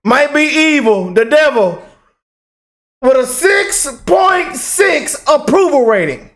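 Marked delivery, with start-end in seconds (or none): 3.0-6.3 slow, higher ranting shout; angry shout. Real, not acted. Vlogger shouting the mayor's approval rating in outrage. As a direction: rail at the number.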